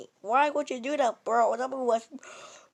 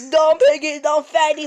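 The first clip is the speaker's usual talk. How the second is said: mock taunt; 2 semitones higher, 6 dB louder than usual. Taunting the pig.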